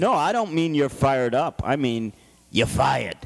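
Donald Trump voice. Acted. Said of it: "You like my Donald Trump impression?".

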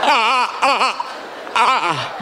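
imitating a child's tantrum grunts; mock temper tantrum. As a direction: grunt like a kid throwing a fit. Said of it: "my son throwing a temper".

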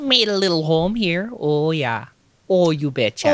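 folksy mock Minnesotan accent; Midwest accent. Settler describing a little home, Midwest accent. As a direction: agree cheerily in a Midwest accent.

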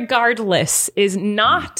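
slow, effortful "irregardless"; laboured pronunciation. Shown as a demonstration. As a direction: push through "irregardless" syllable by syllable. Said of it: "I can't say".

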